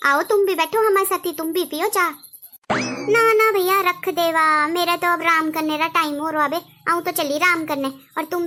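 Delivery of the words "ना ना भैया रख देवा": drawn-out refusal. Acted. Sister-in-law refuses tea.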